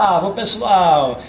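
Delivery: slow, loud ô pessoal with the L pronounced; showing off school speech. Retold or imitated. Schoolboy shows off new diction at home, slow and loud. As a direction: stretch out pessoal proudly. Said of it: "eu chegava em casa e falava".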